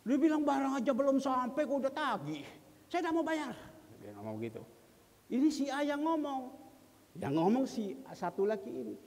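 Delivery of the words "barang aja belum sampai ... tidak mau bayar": curt, mildly raised complaint; raised, brusque mock retort. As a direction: imitate a snippy refusal to pay. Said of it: "Ini bahasa ini ngomongnya ketus".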